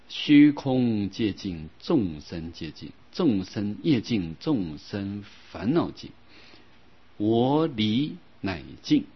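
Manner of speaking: slow, measured scripture chant; slow sutra recitation. Acted. Teacher reciting vows to class, slow scripture intonation. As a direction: intone each vow line slowly and evenly. Recites Samantabhadra vow verse.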